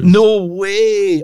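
loud, high-pitched disbelief; astonished outcry. Real, not acted. Contestant hearing the right answer, loud astonishment. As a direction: cry out as the answer floors you. Hears surprising quiz answer.

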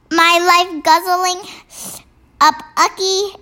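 giant voice. Acted. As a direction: play the friendly giant. Giant figure in read story.

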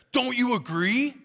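mildly agitated, pointed challenge. Retold or imitated. Agitated man pushing the preacher to agree on politics, mock agitated. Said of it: "start getting agitated".

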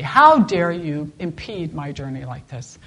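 a retold, lightly acted blow-up at the donkey; hammed-up rider scolding his donkey; mock angry outburst. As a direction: snap at the stubborn donkey in mock fury. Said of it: "he finally blows up at the donkey".

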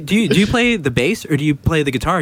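high-pitched comic questioning; mock questioning. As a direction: pitch it up like a silly example. Acted absurd question analogy.

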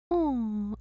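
tiny, drawn-out falling coo; cute little voice. Retold or imitated. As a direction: imitate the Tin Woodsman's sweet little voice. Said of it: "he has the cutest little voice".

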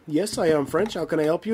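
put-on lightly done French accent. French gamer answering a stranger in the lobby, French accent. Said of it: "talking in their French accents".

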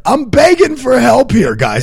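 high, drawn-out begging; cowering plea. Pretend. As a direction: plead like you're desperate. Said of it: "doesn't sound like you're begging".

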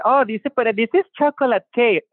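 high, put-on voice of a clueless taster; mock clueless person. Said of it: "So it's like you say".

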